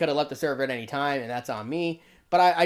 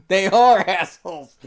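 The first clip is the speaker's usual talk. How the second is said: ARE stretched out and louder; emphatic insistence; 2 semitones higher, 7 dB louder than usual. Real, not acted. Commentator rebutting Nora's video, insistent stress on ARE. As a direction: lean hard and slow on "are".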